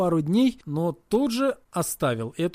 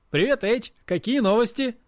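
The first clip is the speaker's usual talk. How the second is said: playing innocent; 6 semitones higher than usual. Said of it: "как ни в чём не бывало".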